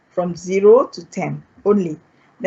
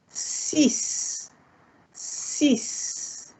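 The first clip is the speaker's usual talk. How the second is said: whispered Six; softly voiceless model word; near-whisper Six; quiet; 5 semitones higher, 10 dB quieter than usual. Shown as a demonstration. Teacher models numbers.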